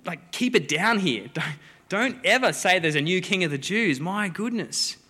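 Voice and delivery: half-laughing, hushing the Magi in mock alarm; freaking out. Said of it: "And they're freaking out".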